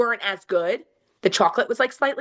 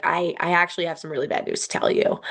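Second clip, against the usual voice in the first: gentle bad news; 4 semitones lower than usual. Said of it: "safely approached me and she was like".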